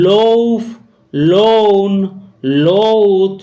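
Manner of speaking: লৌফ, লোন, লৌথ each with O gliding into U; OU pronunciation demo. Shown as a demonstration. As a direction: model the OU vowel in লৌফ, লোন, লৌথ, word by word. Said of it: "এই চারটি ওয়ার্ডের উচ্চারণ".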